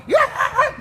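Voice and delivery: high, loud mock yeah like the performer; imitating the rapper. Judge mimicking the rapper's shout, mock yeah. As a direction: echo his big stage yeah. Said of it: "dog, you're going".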